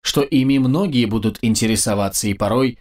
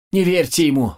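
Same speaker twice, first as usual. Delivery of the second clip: shouted protest; 5 semitones higher than usual. Acted. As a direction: yell it out in protest. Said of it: "выкрикнул надсмотрщик".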